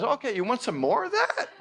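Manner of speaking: loud, high mocking universe voice; booming teasing universe. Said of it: "the universe says".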